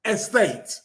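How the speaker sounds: ESTATE said alone, deliberately; pointed, isolated ESTATE; stress on ESTATE. Shown as a demonstration. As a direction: set ESTATE apart after a pause for emphasis. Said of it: "I'm putting the word on".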